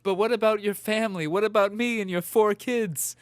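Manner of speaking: pleading wife voice. Pretend. Wife pleads in acted story.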